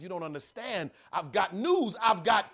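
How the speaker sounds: beg, then burst out with the news; pleading. Acted. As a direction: governor pleading with the prisoner. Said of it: "The governor pleads one more time".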